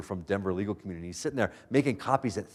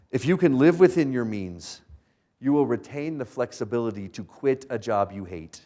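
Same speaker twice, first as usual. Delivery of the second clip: slow, deliberate words to take down; slow it down so they write it; slow, weighty advice. Real, not acted. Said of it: "this is worth writing down".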